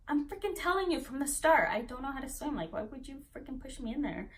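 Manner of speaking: retold exasperation. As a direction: re-enact scolding those who ignored the warning. Her angry protest, retold.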